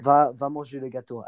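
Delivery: French command, lightly acted; French inner voice. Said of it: "One of them is French".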